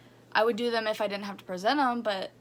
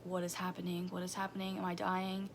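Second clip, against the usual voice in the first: retold inner panic; 2 semitones lower, 8 dB quieter than usual. Girl to herself mid-presentation, unable to breathe, quiet retold panic. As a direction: quote the panicked thoughts quietly, under the voice.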